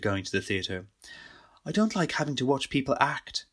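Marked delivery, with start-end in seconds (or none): 1.6-3.5 whispered, far-off remembered voice; whispered memory voice. Retold or imitated. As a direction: breathe it like a voice in his head. Lorraine quoted in Tony's memory.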